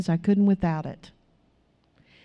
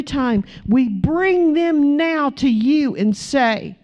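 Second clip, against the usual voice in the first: earnest prayer building in intensity; impassioned congregational prayer; fervent prayer. Real, not acted. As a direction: plead with God, drawing out the repeated appeals. Leads the closing prayer.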